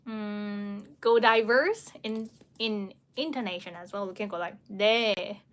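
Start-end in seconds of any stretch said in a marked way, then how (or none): 4.7-5.4 sincere agreeing yes. Shown as a demonstration. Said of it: "You are really, agreeing".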